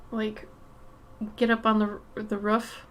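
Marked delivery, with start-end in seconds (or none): 1.3-2.8 "roof" with the short vowel of "book". Shown as a demonstration. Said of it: "I say roofs".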